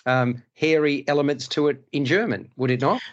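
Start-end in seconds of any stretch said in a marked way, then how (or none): none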